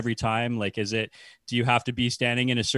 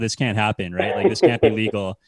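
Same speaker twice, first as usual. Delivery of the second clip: panicked opponents; 5 dB louder than usual. Retold or imitated. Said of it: "throw their hands up".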